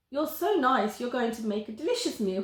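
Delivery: lightly voiced greedy monster; a hint of a big hungry monster. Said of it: "he continues in his big voice".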